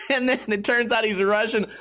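normal talking voice

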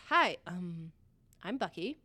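tongue-tied, shy hello; awkward shy greeting. Retold or imitated. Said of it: "So he says".

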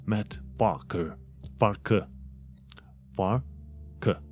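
Parker with the R dropped, pah-kuh; British non-rhotic. Shown as a demonstration. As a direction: Parker in a British accent, no R sound. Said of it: "Un fel de R din ăla gâtuit".

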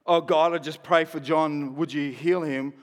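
meek, hesitant asking; a small voice begging God to heal John; pleading prayer. Retold or imitated. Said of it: "we no longer go".

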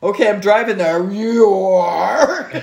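put-on light Nigerian accent, amused. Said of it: "in a Nigerian accent".

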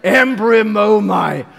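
Embryomomai stretched slow and loud; slow and loud like a snort; drawn-out Greek word. Shown as a demonstration. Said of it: "I'm not even gonna do an impression".

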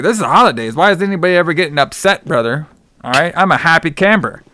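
high, bouncy can't-believe-it; cheery disbelief. Retold or imitated. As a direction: play it as a carefree happy camper. Billy cannot believe someone's upset.

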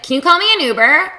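high pleading voice. Retold or imitated. Retelling her own request.

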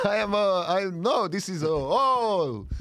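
put-on flustered Dracula-like accent; halting, hammed-up Eastern European-style accent; comic old-man accent. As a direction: fumble along in a mock thick foreign accent. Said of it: "are you playing Dracula".

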